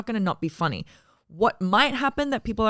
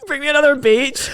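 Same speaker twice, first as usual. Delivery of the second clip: higher, louder grand order with 'beach' for peach, in a mock Arabic accent; 8 semitones higher, 7 dB louder than usual. Teasing her friend's line, a mock Arabic-accented royal order. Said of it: "I said it in an Arabic accent".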